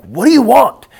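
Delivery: put-on dad snapping at his kid over something minor, irritated; level ten snap. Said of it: "it was a level ten response".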